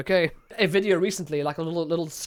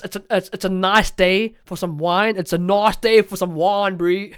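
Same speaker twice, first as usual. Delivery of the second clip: Johannesburg English accent; 5 dB louder than usual. Shown as a demonstration. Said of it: "I sounds become R sounds".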